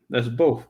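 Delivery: both said with a clear th; the word both said with a clean th ending; plain both. Shown as a demonstration. A speaker demonstrating her own way of saying both. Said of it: "if I say just the word both".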